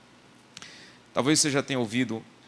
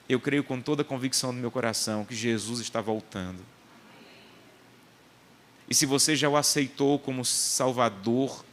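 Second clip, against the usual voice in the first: earnest closing appeal. Real, not acted. Preacher urging his church before leaving, solemn appeal. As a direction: press the church to commit.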